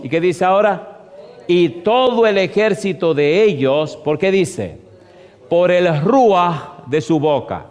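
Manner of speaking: slow, emphatic scripture reading; preaching scripture. Acted. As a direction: draw out each phrase for the congregation. Reads scripture aloud to congregation.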